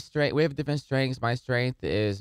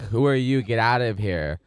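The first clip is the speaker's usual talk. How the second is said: louder, mildly indignant retort; mock indignation; 5 dB louder than usual. Comic imitating offended locals to podcast host, mock indignant. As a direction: play an offended passerby telling someone off.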